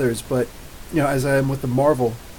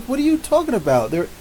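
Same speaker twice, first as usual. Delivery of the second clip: incredulous; 4 semitones higher than usual. Retold or imitated. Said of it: "I was like".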